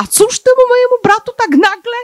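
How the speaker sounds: high, curious king voice.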